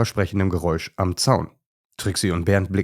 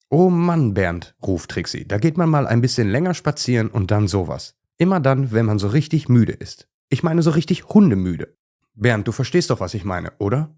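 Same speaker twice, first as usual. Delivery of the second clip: high, eager little dog complaining she is tired; lively little dog; 4 semitones higher than usual. Acted. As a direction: play the small dog, whiny and chatty. Trixie's excited complaint.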